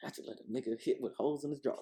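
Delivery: very quiet, angry grumbling mutter under the breath. Retelling what she said under her breath afterward: imitating someone muttering. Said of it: "her under her breath going".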